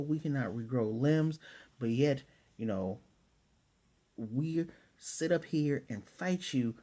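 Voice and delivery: a hint of Tanjiro's furious rant at the demon; Tanjiro going off. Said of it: "and Tanjiro goes off".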